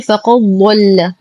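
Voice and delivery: فقد ضل with the د swallowed, faqaddalla; mistaken merging. Shown as a demonstration. Teacher shows a common error, merged د in فقد ضل. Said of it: "لا تدخل في الضاد، فلا نقول".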